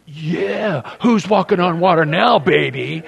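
cocky taunt. Retold or imitated. Peter gloating at the disciples from the water, smug taunt. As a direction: rub it in like a show-off.

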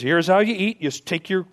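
lightly voiced mother chicken laying down the rules; mother hen showing the chick how it's done; mother hen teaching. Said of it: "he says".

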